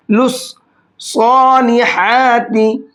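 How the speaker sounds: सॉलिहाती with a thick स्वाद and a long slow ending; heavy swad. Shown as a demonstration. Teacher demonstrates the heavy swad, slowly. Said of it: "स्वाद को मोटा करके पढ़ेंगे".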